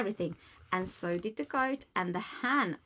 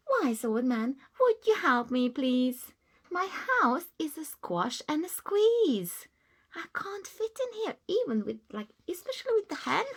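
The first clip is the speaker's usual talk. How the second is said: put-on higher, pleading little old lady; 6 semitones higher than usual. Old lady begging the wise man again, pleading. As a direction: beg for help once more.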